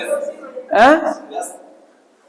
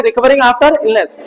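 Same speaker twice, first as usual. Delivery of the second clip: slow dictation; much slower than usual. Shown as a demonstration. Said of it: "कितना याद रखना है?".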